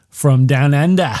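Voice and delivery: mock Australian twang on the place name; Australian accent. Podcaster jokingly echoing the actress's home country, Australian accent. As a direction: put on an Australian accent for a second. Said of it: "Australian accent".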